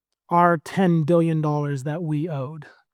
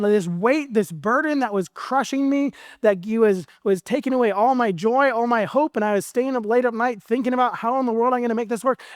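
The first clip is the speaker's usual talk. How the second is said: higher, lively joy; excited relief; 4 semitones higher than usual. Acted. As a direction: burst out with freed excitement. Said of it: "he's like".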